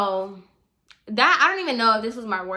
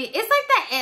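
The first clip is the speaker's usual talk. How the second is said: laughing; 12 semitones higher, 4 dB louder than usual. Real, not acted. Laughing mid rant.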